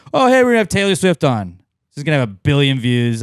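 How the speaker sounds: high, fast mocking voice; mock hype. Mocking the rival podcast in a high fast voice.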